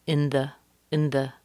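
"In the" as a quick unstressed un-thuh; reduced. Shown as a demonstration. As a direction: shrink both vowels of "In the" to schwas. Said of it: "can be reduced a lot".

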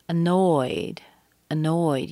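weak schwa, then a long NOYED in "annoyed"; second-syllable stress. Shown as a demonstration. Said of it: "You hear the stress on the second syllable".

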